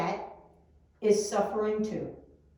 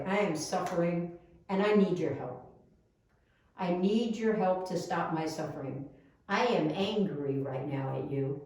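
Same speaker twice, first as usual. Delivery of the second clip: lower, gentle, sincere apology; kindly apology; 4 semitones lower than usual. Acted. To the person you're angry at, a kindly, low-pitched apology. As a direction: own up kindly, without raising the voice. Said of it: "Say it nicely and kindly".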